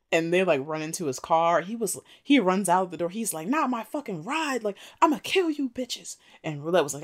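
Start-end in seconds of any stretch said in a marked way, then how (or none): 3.5-6.2 retold angry threat. Acts man yelling after car thieves.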